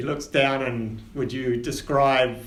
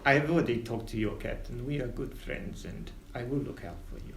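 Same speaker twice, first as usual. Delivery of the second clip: whisper; 3 semitones lower, 7 dB quieter than usual. Acted. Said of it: "he whispers".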